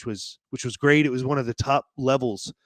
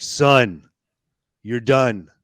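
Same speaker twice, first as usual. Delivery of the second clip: booming voice of God; 5 dB louder, slower than usual. Retold or imitated. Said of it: "authoritative and booming".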